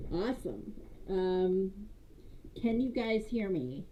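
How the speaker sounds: sounding muffled through a cardboard tube; boxy, hollow mic sound. Real, not acted. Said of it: "It sounds like you're talking into a cardboard tube".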